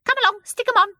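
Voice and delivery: high, loud, eager urging; pleasant expectation. A narrator's reading. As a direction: urge them on eagerly. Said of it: "with pleasant expectation".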